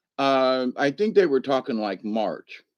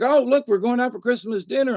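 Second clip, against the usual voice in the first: higher, eager retold announcement; imitating friends; 10 semitones higher, 3 dB louder than usual. Friends announcing Christmas dinner plans, imitated in higher voice. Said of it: "they were like".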